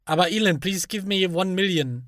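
bad American accent, German speaker; hammed-up American accent. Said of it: "unfassbar schlechten amerikanischen Akzent aufgesetzt".

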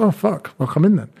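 imitating his younger self; mock reluctant salesman. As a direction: act out grudging surprise. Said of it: "I was like".

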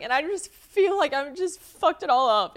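high, loud, hammed-up wail; choked up. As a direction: imitate being upset, drawn out and high. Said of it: "I got a little choked up".

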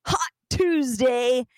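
hyped radio DJ intro, a bit over the top. Pretend. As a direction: pump up the crowd like a radio host. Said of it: "I want you in your best D J voice".

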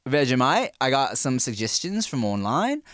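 light put-on Aussie accent; Australian accent. Host introducing a Vegemite tasting, Australian accent. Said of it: "not that bad at that accent".

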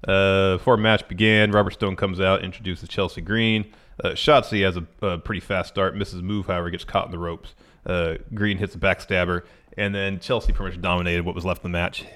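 usual speaking voice

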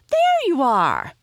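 high, loud cry of discovery; shriek. A narrator's reading. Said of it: "she shrieked".

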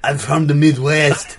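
put-on French-Austrian accent; affected accent. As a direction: artist in a muddled European accent. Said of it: "What is that accent?".

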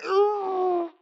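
very high, whimpering ugh of disgust; disgusted whiny groan. Retold or imitated. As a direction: groan like pee just soaked your shirt. Dog pee all down her shirt.

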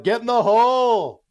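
high, loud, stretched-out holler; funeral heckler's yell. Acted. Heckler interrupting a solemn funeral, yelled. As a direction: bellow it like a golf fan. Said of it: "like, mashed potatoes at a funeral".

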